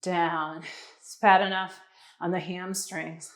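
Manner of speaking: strained under heavy load; straining. Real, not acted. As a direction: push through burning arms. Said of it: "my arms are dying".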